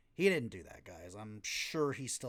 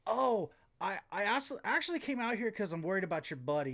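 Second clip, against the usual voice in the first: mock MJF; 7 semitones higher, 6 dB louder, faster than usual. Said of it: "and he says".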